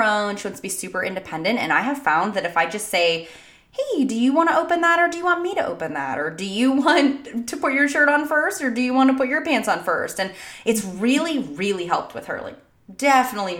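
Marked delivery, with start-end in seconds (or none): 3.7-10.2 lightly voiced coaxing parent; higher-pitched, easygoing offer to a small child; parent offering choices. Mom giving her daughter choices, gently coaxing.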